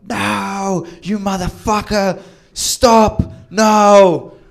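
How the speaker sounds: high, loud mock screaming; retold screaming. Drunk girlfriend screaming at him by the car, loud. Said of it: "Loud enough for the people that live next door to hear it".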